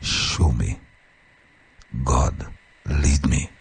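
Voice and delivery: a soft murmured prayer; quiet prayer. Shown as a demonstration. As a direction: pray it quietly, word by word. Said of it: "Constantly say".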